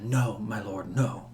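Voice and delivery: hushed, lightly voiced queen; whispered plea. A narrator's reading. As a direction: plead softly in a half-whisper. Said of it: "you can hear her whisper back to him".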